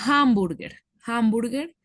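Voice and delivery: hamburger said with a breathy H sound at the start; English hamburger. Shown as a demonstration. Teacher shows why hamburger takes a consonant article. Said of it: "suena como una J".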